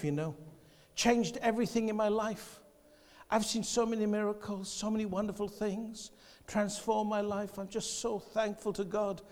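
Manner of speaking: hushed sincere aside. Real, not acted. Preacher turns soft and confiding.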